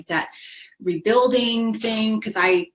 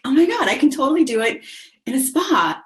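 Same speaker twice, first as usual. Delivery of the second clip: a burst of delight, higher and louder; thrilled realization; 5 semitones higher, 4 dB louder than usual. Retold or imitated. Retelling her joy at the accountant's spa idea, excited. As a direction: blurt it out like the best news ever.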